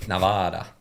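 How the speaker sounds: lightly voiced Nevada accent; deadpan mock Nevada accent. Shown as a demonstration. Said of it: "I can do an impression of every state".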